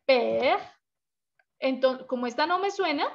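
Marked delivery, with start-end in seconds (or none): 0.0-0.6 PER alone, one syllable ending on R; silent final E. Shown as a demonstration. Teacher repeating the model for students, PER with mute E. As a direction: say PER as "pehr", leaving the last E mute. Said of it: "digo per".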